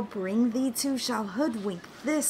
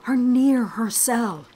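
loud outburst; 8 dB louder than usual. Acted. Sneaking conspirators, sudden loud.

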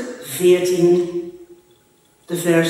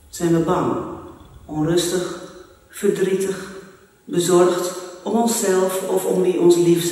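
church prayer. Acted. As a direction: pray it gently for the congregation. (rustig, ingetogen gebed)

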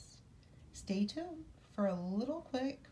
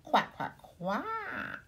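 louder, rising little duck quacks; louder duckling quacks; 7 semitones higher, 4 dB louder, much slower than usual. Acted. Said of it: "say the ducklings".

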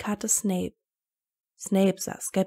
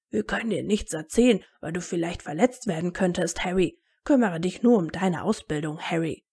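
mildly mimicked condescension; mocking imitation; 2 semitones lower than usual. Harry parrots adults who shielded him, mildly mocking. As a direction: ape a placating grown-up, dropping the name. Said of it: "nachäffte".

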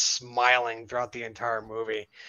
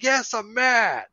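high-pitched mock anger, building louder; acted mad; 9 semitones higher, 6 dB louder than usual. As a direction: imitate a driver provoked into anger. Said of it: "Are you mad?".

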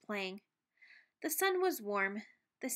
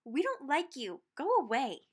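shouted; 3 semitones higher than usual. Acted. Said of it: "The zebra shouted".

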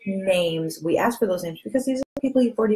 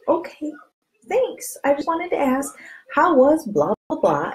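breezy okay thanks; 5 semitones higher than usual. Acted. Brushing off a friend's no.

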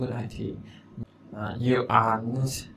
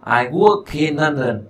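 slow, careful listen-and-repeat; slow model repeat; 3 semitones higher, 6 dB louder, slower than usual. Shown as a demonstration. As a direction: say each word clearly and slowly. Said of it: "Đó".

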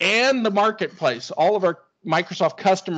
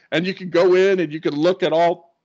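talking through hiccups; hiccuping mid-sentence; 3 dB louder than usual. Real, not acted. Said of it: "excuse me, I got the hiccups".

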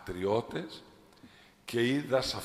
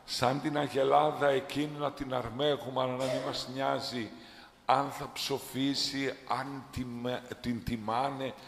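raised, higher voice; impassioned rebuke; 4 semitones higher than usual. Real, not acted. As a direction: scold the flock with fervour. (έντονη επίπληξη)

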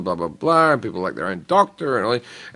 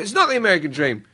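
laying down the law; 9 semitones higher than usual. Retold or imitated. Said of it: "I said to him".

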